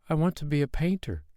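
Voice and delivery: put-on high, eager boy's cry; boy telling the king his dream. A narrator's reading. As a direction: burst out like an eager child. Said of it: "cried Carl".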